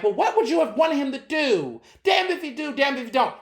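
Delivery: a high mock voice of the skeptics; mocking quote. Mimicking white people who question him, in a high mock voice. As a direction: parody the people telling him both choices were doomed, pitched high. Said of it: "I tell this to white people specifically who's been like".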